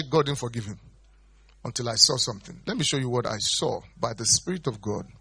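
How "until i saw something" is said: normal talking voice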